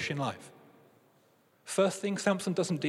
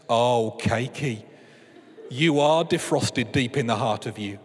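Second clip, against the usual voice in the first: mock bliss; 3 semitones lower, 3 dB louder, slower than usual. Tasting the cake, mock delight.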